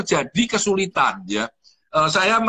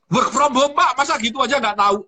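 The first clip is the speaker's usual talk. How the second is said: higher-pitched, teasing disbelief; mock incredulous reply; 6 semitones higher than usual. Colleague answering his question about WFH, incredulous. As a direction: act out someone amazed he doesn't know.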